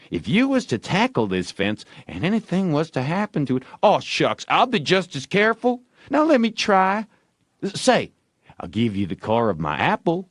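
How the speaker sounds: high, fast coaxing; eager wheedling kid; bargaining Ben. A narrator's reading. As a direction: sweeten the deal.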